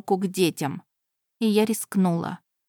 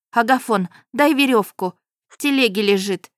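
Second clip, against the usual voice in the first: higher, louder command; urgent order; 4 semitones higher, 5 dB louder than usual. Acted. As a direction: demand the rope. Heroine orders rope.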